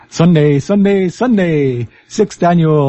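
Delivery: monster truck ad voice. Shown as a demonstration. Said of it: "my monster truck rally voice".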